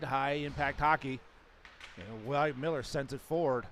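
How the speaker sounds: live hockey play-by-play, rising with action; sports commentary. Real, not acted. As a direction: call the game as it happens. So I'm commentating as I do it.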